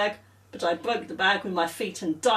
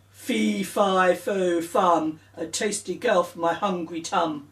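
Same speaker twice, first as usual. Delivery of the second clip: giant voice; 2 semitones lower than usual. Acted. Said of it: "he picked me up and said".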